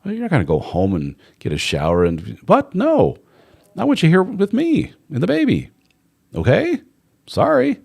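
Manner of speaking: high, mock-firm wife putting her foot down; wife telling husband to stay, firm but high; standing firm wife. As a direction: stop him, then soften with a sorry. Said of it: "as opposed to going".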